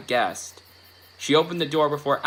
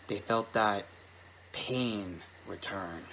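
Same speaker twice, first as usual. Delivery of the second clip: slow, hushed and low; hushed creeping horror; 3 semitones lower, 9 dB quieter, slower than usual. A narrator's reading. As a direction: stretch it out in a dark hush. Hushed ominous narration.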